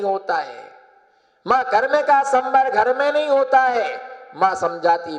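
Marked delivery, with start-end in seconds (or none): 1.5-4.0 high, sustained insistent restatement; insistent retold plea. Son telling his mother why he must leave, insistent. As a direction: press the point to mother on a raised pitch. Son's line repeated with force.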